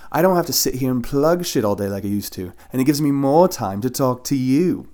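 loud, grand British diva plugging her site; put-on British drag voice. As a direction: purr it like a glamorous British drag queen. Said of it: "What was that voice, huh?".

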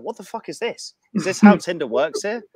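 high-pitched disbelief, rising as it goes; retelling a stunned, amazed reaction; incredulous. Retold or imitated. Man reacting to a date's invitation, incredulous.

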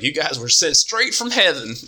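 lightly voiced gushing doctor; mock reverent praise. Doctor praising the boys as heaven-sent, lightly awed. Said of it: "and he was like".

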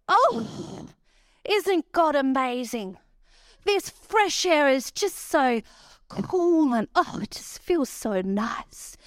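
put-on high, slow, wide-eyed little girl voice; drama-queen daughter. Mother voicing her drama-queen daughter out of the car, high slow child voice. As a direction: gush like a seven-year-old taking in fresh air. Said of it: "She goes".

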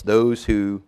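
a touch of loud, slow warning; emphatic pulpit quotation; forceful warning quote. Acted. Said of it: "John Calvin warns us".

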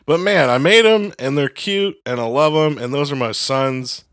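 acted-out proud, forgiving parent; doting parent. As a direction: gush over imperfect kids with lifted voice. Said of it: "like, parent, father, mothering".

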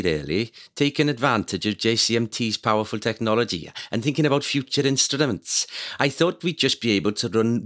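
put-on quoting a scientist in a Welsh accent. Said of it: "you said powerful technology in a very good Welsh accent".

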